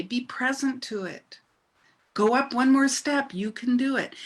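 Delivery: calm reassuring inner voice; divine inner voice. Retold or imitated. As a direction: gently assure like a loving divine voice. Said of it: "the voice of the divine was saying".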